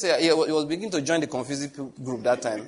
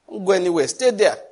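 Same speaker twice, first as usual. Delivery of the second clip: forceful command; 5 semitones higher, 6 dB louder than usual. Acted. Preaching God's command.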